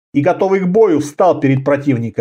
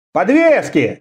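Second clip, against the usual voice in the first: shout from the crowd; 3 semitones higher, slower than usual. Acted. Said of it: "крикнул кто-то из толпы".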